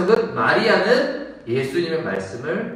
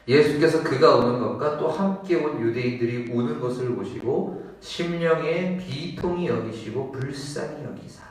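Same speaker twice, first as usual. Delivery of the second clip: ordinary talk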